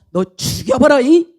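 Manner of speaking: mock threat in Jeolla dialect. Shown as a demonstration. Balaam to his donkey, threatening in Jeolla dialect. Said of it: "전라도 버전으로".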